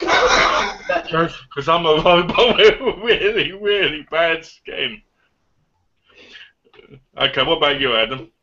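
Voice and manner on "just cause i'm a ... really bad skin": put-on slow old Terminator voice; old robot voice. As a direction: drag it out like an aging robot. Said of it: "looking like an old-aged robot".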